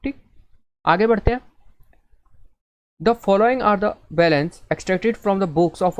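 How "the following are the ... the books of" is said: reading the question out very slowly, word by word; slow read-aloud. Shown as a demonstration. Teacher reading the exam question to class very slowly. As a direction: spell out the problem for students.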